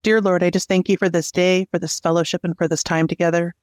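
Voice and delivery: earnest, even-toned prayer; talking to God on the group's behalf; spoken prayer. Real, not acted. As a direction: pray aloud simply in an unbroken, level flow. Leads opening prayer.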